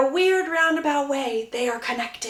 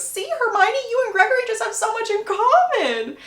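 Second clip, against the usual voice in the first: much higher, bright pushy cheer; eager matchmaking; 11 semitones higher, 4 dB louder than usual. Retold or imitated. Lucy interrupting to push Hermione toward Gregory, much higher and eager. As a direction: sell it hard to both. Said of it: "Lucy interrupts and goes".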